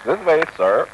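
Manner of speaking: high, loud English usher voice; London usher. Acted. Usher showing Loeres in, high and loud. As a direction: play the stiff doorman.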